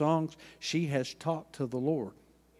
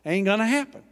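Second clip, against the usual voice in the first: loud, high burst of preaching; emphatic shout; 7 semitones higher, 6 dB louder, faster than usual. Real, not acted. Preacher driving home his point, a loud high shout. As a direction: hit it hard and high to wake them. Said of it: "Excuse my Oklahoma English".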